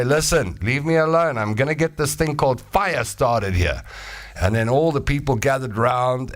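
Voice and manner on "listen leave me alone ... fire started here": slightly higher, brushing him off; lightly voiced stubborn caveman; caveman fire-starter. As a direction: wave off the doubter.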